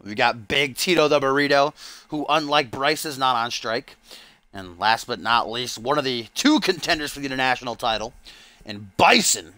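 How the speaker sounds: lively wrestling commentator; play-by-play. Pretend. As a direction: call the match as it unfolds.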